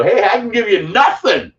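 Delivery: mock collector. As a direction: play the stingy collector offering nothing.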